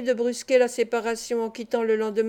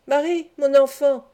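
raised voice calling across the house; old sailor calling his niece aloud; 3 semitones higher, 6 dB louder than usual. Acted. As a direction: call her name loudly from the next room. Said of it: "dit-il à voix haute".

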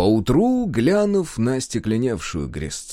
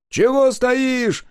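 much higher, slow teasing carter voice; mocking carter; 14 semitones higher, 5 dB louder, much slower than usual. Carter teasing Kudyka for standing still, high and mocking. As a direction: needle the gawking woodcarver from afar.

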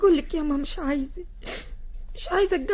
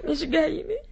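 tearful. Acted. Daughter sulks in tears.

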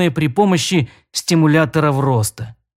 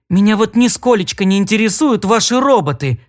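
indignant exclaim; 5 semitones higher than usual. Acted. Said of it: "воскликнула она".

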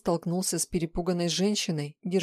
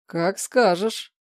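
slow, contented consent, a little louder; pleased agreement; 6 dB louder, much slower than usual. A narrator's reading. Boss giving in to the girl, slow and pleased. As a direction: agree with indulgent satisfaction, drawn out. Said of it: "довольно согласился".

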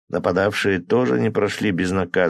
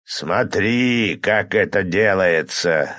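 fire demon voice; much slower than usual. Acted. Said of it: "рявкнул голос демона".

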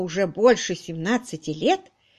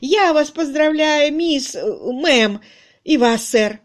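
gushing congratulations; 7 semitones higher, 6 dB louder, slower than usual. Acted. Congratulating the newlyweds.

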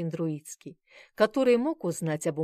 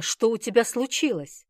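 alarmed; 5 semitones higher, 6 dB louder than usual. A narrator's reading. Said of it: "встревоженно спросил".

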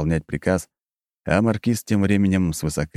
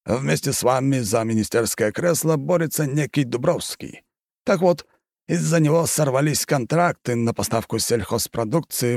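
raised, insistent aristocratic voice; a scheming marquis; 7 semitones higher than usual. A narrator's reading. Marquis persuades the countess, scheming and insistent. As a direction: press the deal like a sly nobleman.

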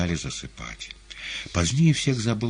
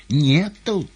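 higher, tender woman's voice; gentle female voice; 10 semitones higher, 8 dB louder than usual. A narrator's reading. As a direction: coax it like a kind nurse. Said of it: "женским ласковым голоском".

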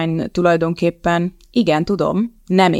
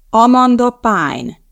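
slow, loud, higher stress on "Amanda Pine"; emphatic repeat; 5 semitones higher, 6 dB louder, much slower than usual. Acted. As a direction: drive the name home, slowly and loudly. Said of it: "ismételte a lényeget Elizabeth".

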